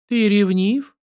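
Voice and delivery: high, astonished question; surprised. A narrator's reading. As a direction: ask as if caught off guard. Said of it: "удивилась Елена". (удивлённо, с повышением голоса)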